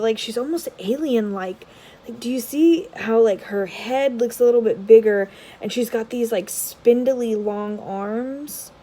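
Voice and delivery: ordinary talk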